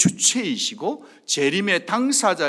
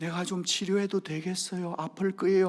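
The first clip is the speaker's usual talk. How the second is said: mock-timid, put-on fearful voice, quieter. Speaker acts out a frightened dentist asking a patient, imitating a scared dentist. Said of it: "무서워서 손을 들들 뜨는 의사".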